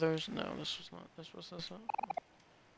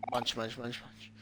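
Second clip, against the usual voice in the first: mock munching; 5 semitones lower, 11 dB quieter, slower than usual. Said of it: "voicing the character eating".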